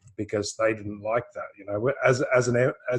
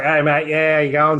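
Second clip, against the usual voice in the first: broad, nasal Aussie greeting, a touch louder; hammed-up Australian twang, slightly louder; Aussie accent; 3 semitones higher, 7 dB louder than usual. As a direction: play up a nasal Australian "Hey, mate". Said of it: "I talk like, you know, Aussie sort of talk".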